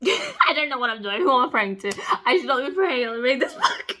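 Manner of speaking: laughing. Real, not acted. Laughing at herself.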